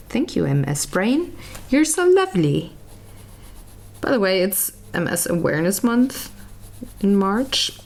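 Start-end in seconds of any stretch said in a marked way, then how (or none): 0.1-2.7 dry sarcastic thanks; sarcastic, higher on the praise. Real, not acted. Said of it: "wonderful, lovely disease".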